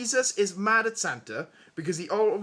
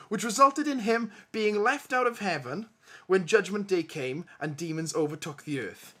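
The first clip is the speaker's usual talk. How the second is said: trailer man voice. Shown as a demonstration. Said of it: "read this like the awesome trailer man".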